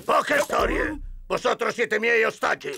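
blustering threat. Acted. Bandit takes hostages.

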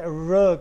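"र" with the tongue curled back; isolated, emphatic "र" as a retroflex sound. Shown as a demonstration. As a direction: curl the tongue for a demonstrated "र". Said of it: "र sound रेट्रोफ्लेक्स है".

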